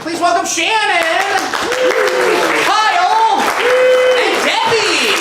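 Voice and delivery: drawn-out high announcer welcome. Real, not acted. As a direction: bring the cast on like a host. Announcer welcomes cast onstage.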